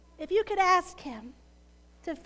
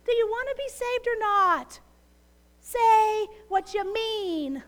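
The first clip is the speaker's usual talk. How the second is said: exasperated rescuer; 4 semitones higher, 3 dB louder than usual. Retold or imitated. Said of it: "throw up your hands and say".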